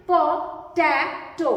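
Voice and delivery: "पोटैटो" slow, with टै stretched long; stress on टै. Shown as a demonstration. Teacher demonstrates where stress falls, "पोटैटो" with टै drawn out. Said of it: "लंबा खिंच रहा है".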